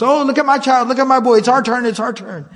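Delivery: a touch of eager jostling for a turn; restless customers. Retold or imitated. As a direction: lightly imitate restless people waiting in line. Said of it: "getting kind of restless".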